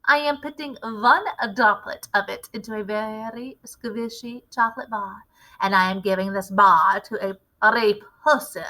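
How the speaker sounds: a lightly voiced commanding witch leader; a hint of a grand witch showing off her recipe. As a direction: lecture the coven like their boss. Grand High Witch addresses the witches.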